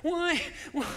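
loud, lamenting Naomi impression, slowed; imitating Naomi. Preacher voicing Naomi to her daughters, loud and lamenting. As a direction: wail it like a bitter old widow. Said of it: "I'm gonna say the way she did".

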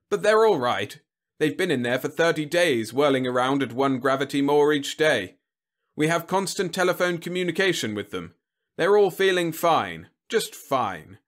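high-pitched, hearty reassurance; soothing. A narrator's reading. General calming Whitlow about the men, soothing. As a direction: reassure him loudly, easing down at the end. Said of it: "said Webb soothingly".

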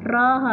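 "را" said as a separate syllable; syllable broken out. Shown as a demonstration. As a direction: sound out "را" on its own. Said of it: "هذا مقطع".

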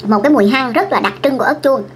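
chewing while talking; speaking around food; mouth partly full. Real, not acted. Seen 3: Bit pepper at -5s; lips pursed, chewing-like while talking, pepper held.

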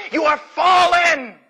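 slow, loud, high anguished shout; drawn-out fallen, yelled with love; screaming in love. Acted. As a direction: cry it out like a loving father. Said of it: "God is screaming out in love".

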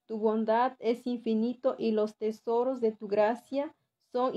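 measured, deliberate reading of a prayer; formal recited prayer with pauses. Real, not acted. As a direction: read out a devotion phrase by phrase. Reads a prayer aloud.

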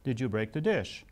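"dish" lifted at the end, non-judgmental; rising question on "dish". Retold or imitated. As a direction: go up on "dish" so it won't accuse. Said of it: "intentionally went up at the end".

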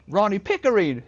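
hammed-up retort; imitated reply. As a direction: yell your own name back defiantly. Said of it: "he's like".

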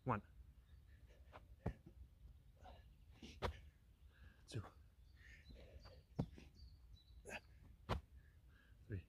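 breathless counting between burpees. Real, not acted. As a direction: count reps, winded and quiet. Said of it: "crank out a few burpees".

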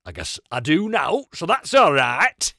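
loud, drawn-out northern English ending; northern English accent. Shown as a demonstration. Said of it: "northern English accents, but".

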